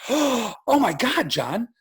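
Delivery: slow, breathless wonder; drawn-out amazed discovery; wife seeing the dream farm, slow and amazed; awestruck wife. Retold or imitated. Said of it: "She gasps and she goes".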